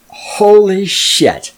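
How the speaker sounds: drawn-out stunned delight; amazed at the fixed feed, slow and loud. Retold or imitated. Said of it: "I'm like".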